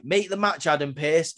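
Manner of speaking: a hint of a commanding champion; lightly voiced Gunther barking an order; mock Gunther demand. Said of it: "Gunther's like".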